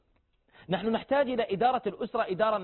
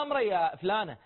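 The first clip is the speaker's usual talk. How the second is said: curt reply. Shown as a demonstration. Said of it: "لا تقول له".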